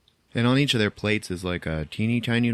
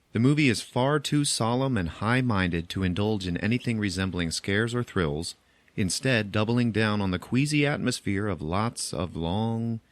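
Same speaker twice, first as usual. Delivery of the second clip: reading a quote; slower than usual. Retold or imitated. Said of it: "I want to read you a quote".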